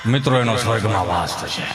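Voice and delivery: high, slow preacher's announcement; mock preacher. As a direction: keep the pompous katha tone going. Preacher voice continues. (કથાકારનો ઊંચો ધીમો અવાજ)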